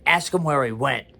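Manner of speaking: mildly angry retold order; firm mock demand. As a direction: imitate an angry nurse on the line. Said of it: "was so angry".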